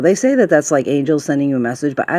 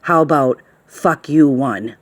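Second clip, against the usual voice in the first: aggressive; slower than usual. Retold or imitated. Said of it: "like, really aggressively".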